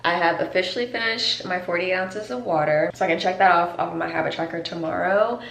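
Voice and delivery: talking around a retainer; slightly lisped retainer speech; wearing a retainer. Real, not acted. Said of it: "Sorry if I'm talking a little funny. I have my retainer in".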